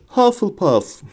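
high-pitched calling out; the hat's high verdict cry; shouted announcement. A narrator's reading. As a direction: proclaim the house name to the hall. Hat calls out the house name.

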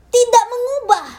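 loud, high, forceful; emphatic declaration. Real, not acted. Preacher declares to congregation, loud and forceful. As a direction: hammer the point home.

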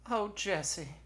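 high, swooning sigh of the name; melting. A narrator's reading. Dispatcher gives in to sweet-talking Jesse, swooning. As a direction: melt with affection. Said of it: "Gert melted".

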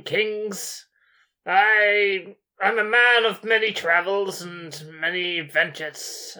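lightly voiced boastful sorcerer; a hint of a grand wizard bragging. Player as sorcerer Gregomel bragging to the giant, lightly voiced.

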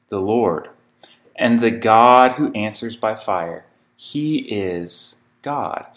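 measured, solemn Bible reading; scripture reading. Acted. Preacher reading scripture to his congregation, measured and solemn. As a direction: read the passage aloud to the congregation.

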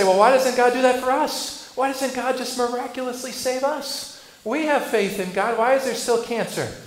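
loud, frustrated string of questions; complaining. Retold or imitated. Believers questioning God about suffering, loud exasperation. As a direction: demand answers from God, exasperated. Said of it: "we're tempted to say".

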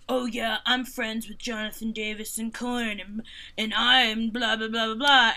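lightly voiced smug name-dropper; a hint of a pompous gatekeeper rattling off blah blah; pretentious older man. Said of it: "pretentious older men".

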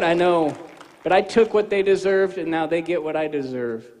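Jesus calmly answering the believer's objection. Acted. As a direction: answer gently and steadily. Voicing Jesus in dialogue.

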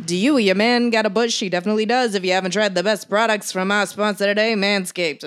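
1940s news reporter. Acted. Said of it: "I'm trying to talk like a nineteen forties news reporter".

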